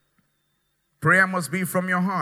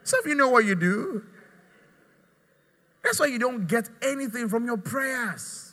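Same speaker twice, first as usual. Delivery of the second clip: preaching shout; 4 semitones higher, 3 dB quieter than usual. Real, not acted. Preacher scolding congregation.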